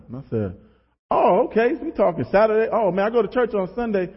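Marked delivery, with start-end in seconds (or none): 1.1-4.1 put-on naive teenager. Replays naive high school self.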